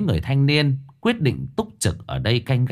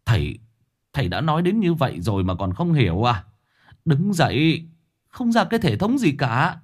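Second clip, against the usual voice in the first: scolding shout; 4 semitones higher than usual. Acted. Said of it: "thì quát lên".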